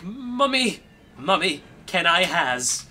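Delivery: put-on high-pitched wheedling kid; begging child. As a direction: plead with mum like a little kid. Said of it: "I'd just be like".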